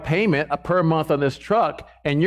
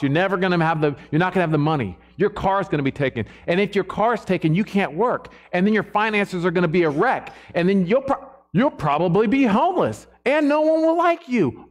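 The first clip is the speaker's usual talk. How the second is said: voice of anxiety; 3 semitones higher than usual. Acted. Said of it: "that's how it talks".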